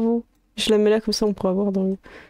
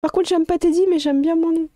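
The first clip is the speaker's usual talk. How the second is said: higher, whiny sulking creature; sulky creature voice; 6 semitones higher than usual. Acted. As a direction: complain like a sulking pet. Teddy voice again. (voix de créature boudeuse)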